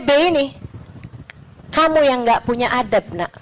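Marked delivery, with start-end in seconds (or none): 1.7-3.3 measured rebuke in the usual register; restrained retort. Retold or imitated. Syekh answering a young critic, restrained retort. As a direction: answer back evenly, as an elder.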